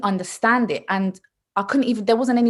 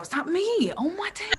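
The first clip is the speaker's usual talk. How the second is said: high, soft squeal of embarrassment; small high-pitched mortified voice; cringing disbelief; 12 semitones higher, 5 dB quieter than usual. Retold or imitated. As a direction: squeak it out, cringing and half laughing. Mock cringing at own birth audio.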